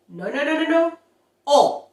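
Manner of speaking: singsong no-no then pure O; mock scolding. Shown as a demonstration. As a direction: spielerisch tadelnd. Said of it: "stop saying O".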